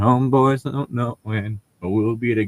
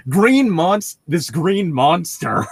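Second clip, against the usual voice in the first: mock offended; 4 semitones higher, slower than usual. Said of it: "people discriminate against me".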